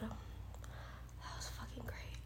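slow breathless whisper; soft, slow, spent whisper. Real, not acted.

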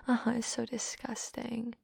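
mocking whisper. Humiliating her partner, mocking whisper.

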